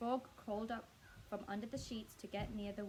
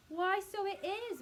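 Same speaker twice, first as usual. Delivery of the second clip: higher, louder, slow exclamation; surprised Mrs Twit; 10 semitones higher, 6 dB louder, slower than usual. A narrator's reading. Mrs Twit looks at her stick in surprise, high and slow. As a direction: sound startled by the news.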